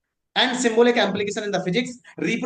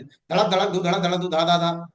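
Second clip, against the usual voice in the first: heartbeat imitation. Shown as a demonstration. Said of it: "ऐसे धड़कता है दिल".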